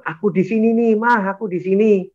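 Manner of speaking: retold calling out. Husband answering his crying wife, high retold call. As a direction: imitate calling out to reassure someone. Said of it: "saya bilang".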